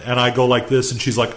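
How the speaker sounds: ordinary delivery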